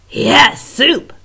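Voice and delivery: high, loud eager chorus; excited squeaky agreement; agreeing rats. Acted. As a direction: rats cheering together. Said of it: "the others agreed".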